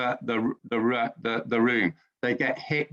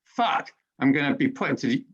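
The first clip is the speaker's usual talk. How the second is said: mock panic. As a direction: act out a jolt of panic at the lawyer's news. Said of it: "my body goes into panic".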